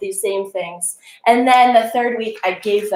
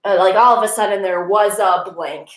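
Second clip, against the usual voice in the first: reading template. Shown as a demonstration. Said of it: "You know".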